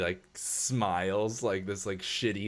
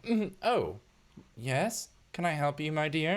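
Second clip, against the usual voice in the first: lightly voiced snooty socialite, much higher; haughty rich lady; 9 semitones higher, slower than usual. Rich wife answering a worker's tap, haughty and higher. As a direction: look down your nose, sweetly condescending.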